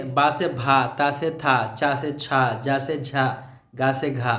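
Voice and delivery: plain "बा", then breath-puffed "भा", likewise through "गा से घा"; aspirated letter pairs. Shown as a demonstration. Teacher recapping added letters, plain then aspirated as in "चा से छा". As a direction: set each plain consonant against its aspirated twin, "ता से था". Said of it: "second topic थी हरूफ इजाफी".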